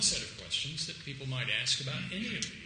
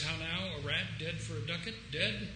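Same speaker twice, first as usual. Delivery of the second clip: Hamlet's line; 5 semitones higher than usual. Retold or imitated. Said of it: "Ham says".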